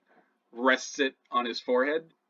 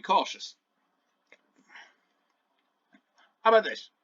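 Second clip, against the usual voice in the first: talking through a mouthful of orange; chewing while he talks; mouth full; 5 semitones higher than usual. Acted. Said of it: "with his mouth full".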